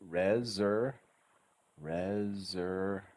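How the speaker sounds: RESERVATIONS broken slowly into beats, buzzed Z; teacher's drawn-out RESERVATIONS with Z for S; syllable by syllable. Shown as a demonstration. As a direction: sound out RE-ZER, then RESERVATIONS slowly. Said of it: "We need a good Z sounding S".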